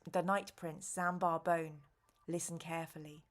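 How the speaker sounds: lightly voiced calm old man, unhurried; a hint of a tired old sage; calm old wizard. Nicodemus tells the heroes he is tired, calm voice. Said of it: "starts to talk in a calm voice".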